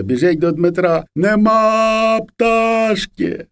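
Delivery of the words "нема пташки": put-on high, drawn-out child's wail. A narrator's reading. Bawling boy runs to Dmytro over lost bird, wailing. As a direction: wail it slowly, high and held long. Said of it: "Володя розгревівся".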